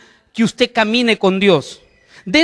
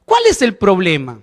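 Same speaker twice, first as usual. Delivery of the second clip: tempting voices. Retold or imitated. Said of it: "esas voces de decir".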